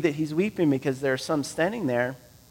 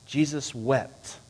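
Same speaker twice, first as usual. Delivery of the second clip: soft solemn; 6 dB quieter, slower than usual. Shown as a demonstration. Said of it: "you've heard sermons on this".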